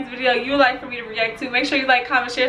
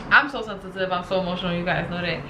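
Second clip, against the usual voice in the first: close to tears; 5 semitones lower, 4 dB quieter, faster than usual. Real, not acted. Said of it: "I'm about to cry".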